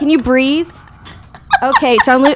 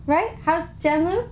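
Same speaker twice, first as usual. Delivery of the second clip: bad Asian accent attempt; 6 semitones higher, 8 dB quieter than usual. Shown as a demonstration. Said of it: "if that's supposed to be an Asian accent".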